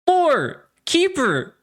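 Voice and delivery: put-on high, slow, drunken proclamation; drunk young man. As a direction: drawl it out like a drunk volunteering for glory. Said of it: "by a drunk, heavy-breathing".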